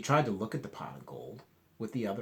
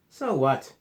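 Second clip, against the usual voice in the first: grumpy snap; 4 semitones higher, 11 dB louder than usual. Acted. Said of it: "you are grumpy".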